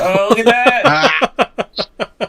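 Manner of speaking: loud, high, drawn-out exclamation; excited discovery. Acted. Player reacting to a found bit of chalk, excited. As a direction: exclaim high and loud over a lucky find.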